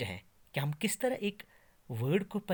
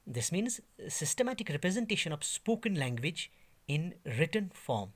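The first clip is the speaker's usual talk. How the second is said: slow dictation; much slower than usual. Shown as a demonstration. Teacher reading a definition of transcription slowly. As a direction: read out very slowly, word by word. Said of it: "लिखा है transcription".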